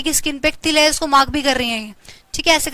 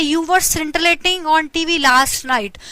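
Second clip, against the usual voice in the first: scintillating read slowly, syllable by syllable; slow example sentence; much slower than usual. Shown as a demonstration. Teacher reads an example sentence to students, slow and deliberate. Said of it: "कैसे आप इसको use कर सकते हैं".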